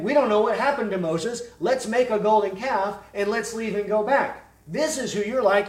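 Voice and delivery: loud, high-pitched pulpit accusation; forceful preaching. Real, not acted. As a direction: hurl the charge like a fiery preacher. Preacher voices Stephen's accusation at full force.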